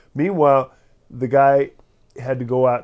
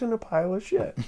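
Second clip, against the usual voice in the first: lightly voiced, higher old lady; little old lady; 10 semitones higher than usual. Little old lady giving the limerick's punchline, lightly voiced and higher. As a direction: recite it primly in a higher voice. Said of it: "hum the dirty parts".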